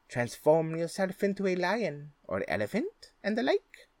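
sly cat voice. Acted. Cat flatters the ogre.

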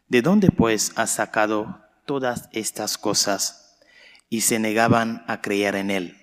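solemn liturgical reading voice; Gospel reading. Real, not acted. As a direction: proclaim the Gospel to the church. Priest proclaims the Gospel.

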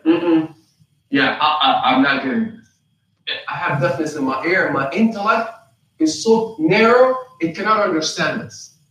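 halting mock reluctance; playing dumb. Unbelievers still refusing the clear message, playing dumb. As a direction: lightly feign a narrow, uncomprehending mind. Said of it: "You're playing dumb then".

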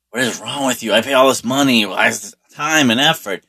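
father laying into his son, pitch lifted; mildly heated parental rant, retold; retold scolding. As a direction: imitate a dad's exasperated telling-off. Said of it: "father just laying into my brother".

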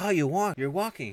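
high, loud mock amazement; astonished. Husband to wife out of her wheelchair, astonished. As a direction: imitate a husband's startled discovery.

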